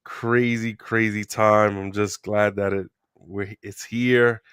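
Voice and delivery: talking through a sore throat; strained voice from a sore throat. Real, not acted. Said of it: "excuse my, my voice".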